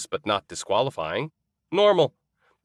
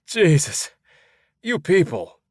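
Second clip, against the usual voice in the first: exasperated; 8 semitones higher, 5 dB louder than usual. A narrator's reading. Exasperated at confused locals.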